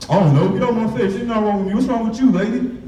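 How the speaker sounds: put-on a touch of defiant kid sass; defiant back talk. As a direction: mouth off like a rude nine-year-old. Kid mouthing off to teacher.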